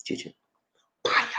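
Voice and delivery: "Chicha" and "Paya" said slowly, one at a time; measured, separated syllables for learners; slow teaching demo. Shown as a demonstration. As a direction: break it up for repeating, "Chicha", pause, "Paya". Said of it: "I'm gonna say it slow".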